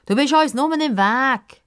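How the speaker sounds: put-on high, slow, scornful boy voice; dismissive boy. Boy telling the girl she's in the way, scornful. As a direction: brush her off like a pest. Boys reject Pippa.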